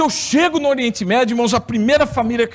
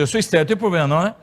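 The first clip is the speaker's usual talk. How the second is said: eu sou estéril rattled off fast, hoping she misses it; rushed; 3 semitones lower, much faster than usual. Retold or imitated. Husband rushing the confession to his girlfriend, fast mumble. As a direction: mumble it quickly to get it over with. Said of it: "Não entendi nada".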